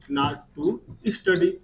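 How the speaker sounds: very slow, word by word; slow dictation. Shown as a demonstration. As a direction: dictate each word slowly. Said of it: "teacher dictating negative phrase". (धीरे-धीरे लिखवाना)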